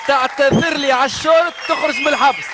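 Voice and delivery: mock shout. Host teasing jail demand, shouted.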